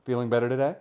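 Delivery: sing-song nurse checking on a patient; chirpy bedside nurse act; mock nurse. Nurse walking in on a couple. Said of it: "She's the kind of nurse that would walk in on that and be like".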